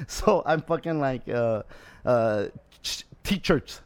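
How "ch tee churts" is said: accented slip on "t-shirts", a hard ch in the middle; S turned to ch. Shown as a demonstration. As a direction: say "t-shirts" as "tee-churts". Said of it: "it just comes out like that".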